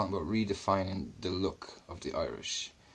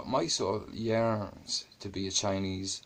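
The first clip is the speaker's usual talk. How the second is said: mock soulful; much slower than usual. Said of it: "Okay, well, I".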